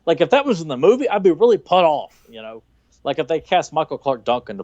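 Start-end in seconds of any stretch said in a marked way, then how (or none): 0.1-2.2 annoyed aside. Retold or imitated. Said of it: "then you're like".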